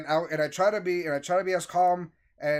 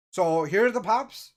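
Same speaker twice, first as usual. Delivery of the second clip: louder, slow, raised-pitch defensive retort; 4 semitones higher, 5 dB louder, slower than usual. Retold or imitated. Clerk returning from the back to customers, defensive. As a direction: imitate a defensive clerk laying it down. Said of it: "immediately starts very defensive and goes".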